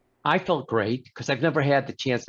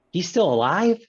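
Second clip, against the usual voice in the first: shocked doctor; 6 semitones higher, 5 dB louder than usual. Retold or imitated. Doctor shocked patient lives.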